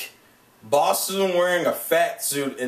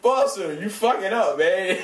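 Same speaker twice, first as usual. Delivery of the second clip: amused scolding; 5 semitones higher than usual. Retold or imitated. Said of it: "I was like".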